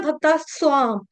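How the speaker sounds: "भक्ता स्वाम" run together without the t; common mispronunciation. Shown as a demonstration. Teacher showing students the mistake, "भक्ता स्वाम" without t. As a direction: drop the t, bhakta-svaam. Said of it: "गलती से क्या उच्चारण किया जाता है".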